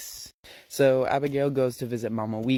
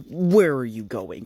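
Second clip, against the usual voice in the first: mock cop demand; 5 dB louder than usual. Fake cop yelling at driver.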